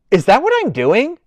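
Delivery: high, loud, laughing question; realising her humming copies a jingle, laughing; amused disbelief. Real, not acted. Amused at own humming habit.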